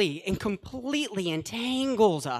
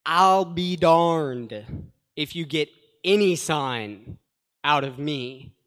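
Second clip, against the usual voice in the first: slow, louder, flatly refusing; firm modern paraphrase; 4 semitones lower, 4 dB louder, slower than usual. Acted. Preacher giving a modern paraphrase of Jesus, firm refusal. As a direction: dig in and refuse him outright. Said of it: "Or modern translation".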